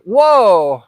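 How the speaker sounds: a sharp, stunned exclamation; shocked whoa. Retold or imitated. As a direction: recoil in disbelief. Reacting to drunks hitting family.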